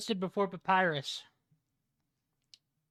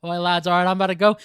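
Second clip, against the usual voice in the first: put-on Scottish accent; 8 dB louder, faster than usual. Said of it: "he drops the accent".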